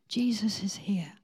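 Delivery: hushed unvoiced whisper. Mark, eyes closed, tells the pastor in a whisper. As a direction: breathe it in awe.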